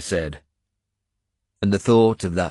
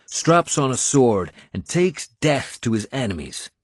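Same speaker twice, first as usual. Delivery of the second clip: rousing Irish warrior; 4 semitones higher than usual. Acted. Finan refusing to let his lord lie in bed, rousing. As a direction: stir the wounded lord to fight.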